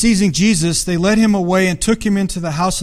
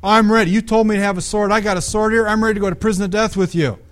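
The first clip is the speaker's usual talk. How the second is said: quick, slightly raised bravado; eager boast; 3 semitones higher than usual. Acted. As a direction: play Peter boldly declaring he is ready. Acting out Peter's eager boast.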